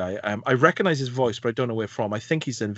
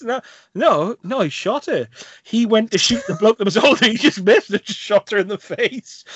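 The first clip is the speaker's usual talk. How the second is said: blunt daughter; 9 semitones higher, 5 dB louder than usual. Retold or imitated. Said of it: "And she just says".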